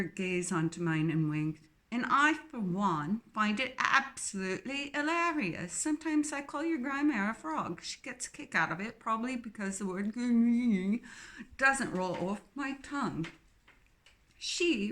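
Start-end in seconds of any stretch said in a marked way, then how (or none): 1.9-13.2 put-on strong English accent. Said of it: "her English accent strong".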